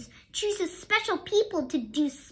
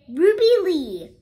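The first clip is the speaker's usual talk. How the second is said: calling out; 3 semitones higher, 9 dB louder than usual. A narrator's reading. Teacher calling on Ruby Lee.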